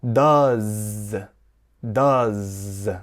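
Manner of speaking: "does" drawn out with a long zzz ending; buzzing final Z. Shown as a demonstration. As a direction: hold the z at the end of each "does". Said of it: "the letter S is pronounced as a Z".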